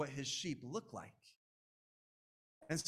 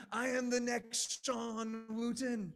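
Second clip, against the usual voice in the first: higher and slow, savoring the boast; mock grandiose; 8 semitones higher, slower than usual. Preacher mocking his own ambition, slow swelling boast. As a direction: crown yourself the next star. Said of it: "I've had thoughts like".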